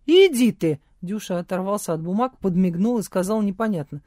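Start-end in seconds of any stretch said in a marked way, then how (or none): 0.1-0.8 loud, high burst of disbelief; amazed. A narrator's reading. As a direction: blurt it out in surprise. Дюша изумлён. (изумлённый возглас)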